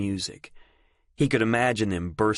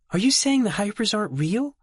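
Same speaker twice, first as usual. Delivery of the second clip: rushed; 13 semitones higher than usual. Acted. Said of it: "in a blast of rushed words".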